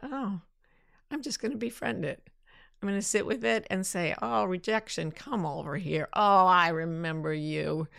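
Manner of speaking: gentle welcome. Retold or imitated. Speaker welcoming her own rejection as a friend, gently.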